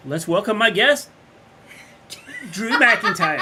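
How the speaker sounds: slow, loud ring announcer. Acted. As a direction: announce the guest slowly and loudly. Announcer intro, second take.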